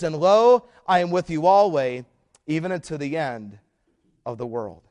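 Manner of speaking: ringing, loud proclamation of the promise; proclaiming the verse. Acted. Preacher quoting Jesus to the church, loud and ringing. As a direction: call out each word of the promise over the congregation. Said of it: "He says".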